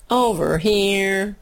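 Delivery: slow, drawn-out singsong call; sing-song call. Shown as a demonstration. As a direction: call it out like a chant. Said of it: "the thought processes that just went on in my head".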